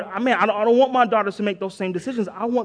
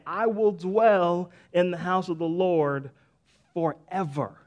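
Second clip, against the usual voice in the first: faith declaration; 2 semitones lower, slower than usual. Shown as a demonstration. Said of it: "that's a faith statement".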